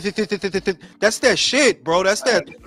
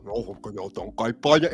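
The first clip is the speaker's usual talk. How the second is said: low, fast Cuban Spanish, mouth full; mumbled Cuban Spanish; 10 semitones lower, 6 dB quieter, faster than usual. Retold or imitated. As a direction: rattle it off in Cuban Spanish like chewing. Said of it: "got a jawbreaker in their mouth".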